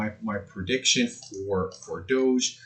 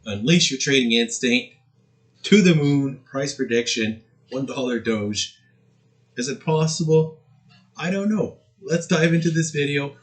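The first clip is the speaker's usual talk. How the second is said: crypto bro; 4 semitones higher than usual. Acted. Hyped channel intro.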